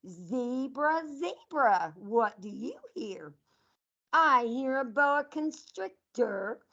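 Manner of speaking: sing-song picture book read to a class; reading to children. Acted. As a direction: read it out like storytime for little kids. Teacher reads animal picture book.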